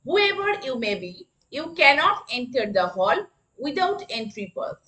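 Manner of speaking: very slow, word by word; slow classroom dictation. Shown as a demonstration. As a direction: spell it out slowly for the class. Teacher repeats the sentence.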